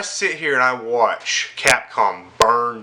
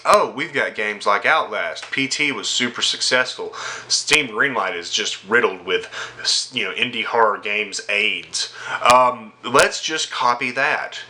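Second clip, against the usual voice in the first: mock Capcom exec; 5 semitones lower than usual. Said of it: "Capcom looks and sees".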